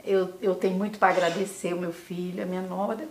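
choked up, voice rising through tears and a small laugh; tearful. Real, not acted. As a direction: thank the family while fighting back real tears. (voz embargada de choro)

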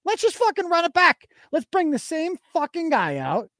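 hammed-up eagerness for a rerun; mock enthusiasm. Mocking voters eager to rerun candidate.

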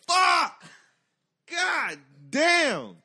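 high, loud cries of dismay; comic outburst at being caught; shouted cursing. Retold or imitated. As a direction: yell each word out high. Reacting to the police siren.

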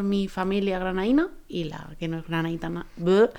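talking around something in the mouth; words muffled by something in the mouth; mouth full. Real, not acted. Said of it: "Hoy tengo algo en la boca pa que no me deja hablar bien".

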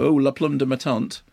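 French in a plain English accent; la plume de ma tante with English vowels. Shown as a demonstration. Radio host shows off supposedly seductive bad French, English-accented. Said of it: "English person speaking French with an English accent".

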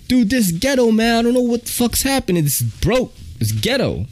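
high fast frantic conductor voice; mock conductor. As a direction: squeal it like a panicked conductor. Conductor voiced in subway story.

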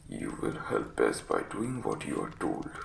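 very low, croaky invalid giving orders; croaking command. Acted. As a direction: croak a stern warning from the sickbed. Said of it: "was croaking".

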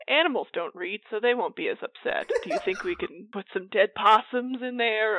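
holding back laughter; suppressing giggles, barely composed; stifled giggles. Real, not acted. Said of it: "I'm trying not to laugh really hard".

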